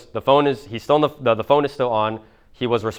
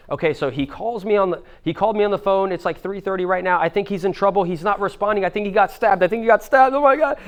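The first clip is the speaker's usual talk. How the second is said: high-pitched imitation of a frantic mother; crying, panicked mom; 8 semitones higher than usual. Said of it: "And she's, like, crying".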